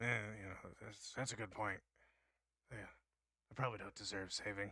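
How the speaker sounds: faltering, stumbling, tripping over words, mumbled under breath. Voicing a character asked why he should be saved, stumbling over words and muttering. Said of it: "he stumbles over his words and kind of mutters under his breath".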